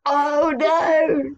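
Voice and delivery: playfully horrified exclamation; mock dismay. Writer reacting to the monster theory, mock dismay.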